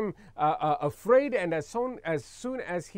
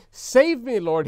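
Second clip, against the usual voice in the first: brief raised cry that drops at the end; shouted plea; 4 semitones higher, 7 dB louder than usual. Acted. Preacher reads Peter sinking, a brief shouted plea. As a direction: punch it high and loud, then let it fall. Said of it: "he shouted".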